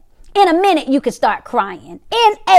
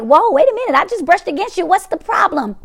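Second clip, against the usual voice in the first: higher-pitched, puzzled protest; mock bewilderment at someone's overreaction; taken aback; 4 semitones higher than usual. Acted reaction to a jumpy person.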